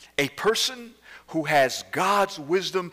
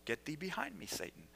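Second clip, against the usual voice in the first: softer stern rebuke; Jesus rebuking; 3 semitones higher, 16 dB quieter, faster than usual. Acted. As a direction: push it away quietly and firmly. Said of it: "And Jesus said".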